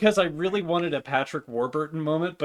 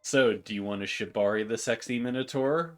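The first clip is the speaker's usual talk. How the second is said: sexy Minotaur voice; 3 semitones lower than usual. Acted. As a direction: purr it like a vain showman. Morty character voice.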